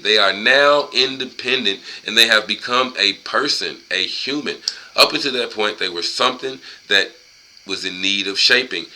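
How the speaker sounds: emphatic, measured read-aloud; book reading. Acted. Man reading a book passage to listeners, emphatic read-aloud. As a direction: read it out firmly, word by word.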